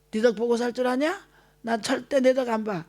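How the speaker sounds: a touch of a scolding mother, lightly voiced; half-hearted angry retort to a child; mild mock angry mother. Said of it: "화난다고 그런 말 하면 안 됩니다". (화난 엄마 흉내, 살짝)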